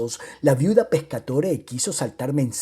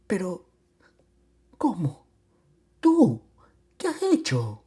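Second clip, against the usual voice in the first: halting, tearful stammer with long pauses; voice broken by sobs; 3 semitones higher than usual. A narrator's reading. Wife stammers at returned husband, voice broken by sobs. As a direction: stammer it out through acted sobs. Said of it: "con voz rota por los sollozos balbució".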